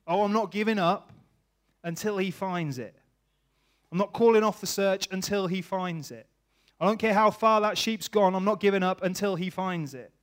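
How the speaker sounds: a hint of a stubborn shepherd; determined shepherd. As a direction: vow never to give up the search.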